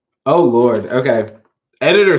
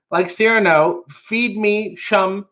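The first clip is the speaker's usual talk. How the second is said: mushy cartoon cat voice; 6 semitones higher, slower than usual. Shown as a demonstration. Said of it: "I get to read it like this 'cause they write them in weird ways".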